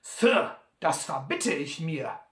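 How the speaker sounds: viel höher und lauter, spöttisch; Sam verschmitzt. Acted. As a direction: frech abwinken wie der alte Trapper. Sam gegen Butler. (Sam weist Butlers Vorwurf hoch und spöttisch zurück)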